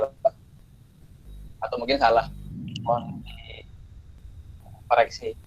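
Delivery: choppy, dropping-out call audio; radio breaking up. Real, not acted. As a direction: voice cutting in and out over a bad connection. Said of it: "suaranya putus-putus ya". (suara putus-putus)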